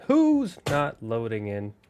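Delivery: drawn out, stretching WHO'S; slow repeat. Real, not acted. Streamer waiting on the game to load, slow repeated question. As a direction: ask it slowly, with a long held "Who's".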